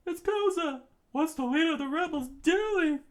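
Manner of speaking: high, loud astonishment; surprised soldier. Acted. Soldier spotting the rebel leader, surprised. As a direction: gasp out the name.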